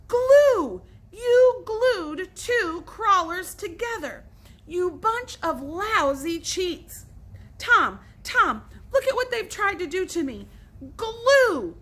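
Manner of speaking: high, loud, slow accusing scream. A narrator's reading. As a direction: scream at the cheats in fury. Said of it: "screamed Billy".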